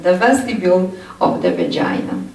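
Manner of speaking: vestibule stressed, said fast; emphasized term. Shown as a demonstration. Lecturer repeats an important term, stressing vestibule. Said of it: "I need to emphasize it".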